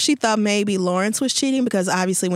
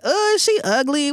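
mock disdain; 5 semitones higher than usual. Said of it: "being like".

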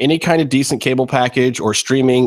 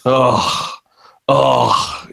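drawn-out sighing groan; exasperated groan. Real, not acted. Host stuck sending the podcast link, groaning.

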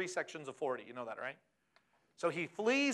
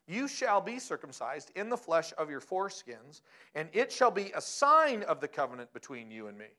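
scripture reading. Acted. Reads scripture aloud.

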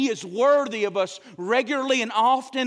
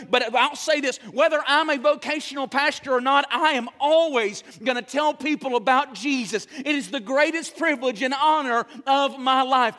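louder, insistent preaching; building preaching; 2 semitones higher, 3 dB louder than usual. Real, not acted. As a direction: press the point home to the church. Preaching at rising force.

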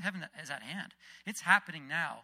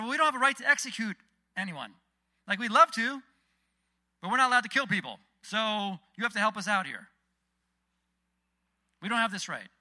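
loud, raised-pitch protest; pushing back; 6 semitones higher, 10 dB louder than usual. Retold or imitated. Jewish leaders objecting to the governor, loudly insistent. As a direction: plead the case, insistent and higher. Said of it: "they kind of pushed back on the governor".

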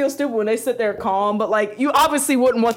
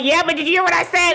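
higher-pitched acted challenge; mildly exasperated; 6 semitones higher than usual. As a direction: press him with mock impatience. Acted quarrel with boyfriend.

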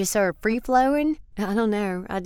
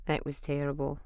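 usual speaking voice

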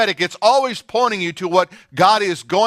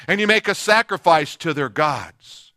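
normal talking voice

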